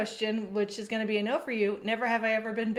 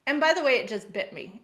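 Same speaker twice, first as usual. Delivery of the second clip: retold yelling; 3 semitones higher than usual. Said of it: "yell at my husband".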